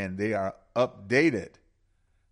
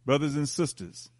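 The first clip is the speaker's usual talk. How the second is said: ceremonial libation; 3 semitones higher than usual. Acted. Host pouring libation to the ancestors, solemn ritual invocation. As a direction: intone each pour like a ritual blessing.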